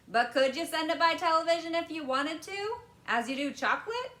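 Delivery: put-on high, excited boy's voice; eager boy. A narrator's reading. Boy quizzing Wonka about television, eager and high.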